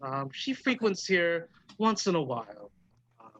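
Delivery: lightly voiced old hostess, slowing at the end; musing elderly dwarf barkeep. Dwarf bartender telling the musician about a regular, musing. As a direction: recall a regular thoughtfully in a put-on voice.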